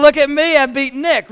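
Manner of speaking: mock gloating. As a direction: crow about beating Nick. Imagining Mocha gloating.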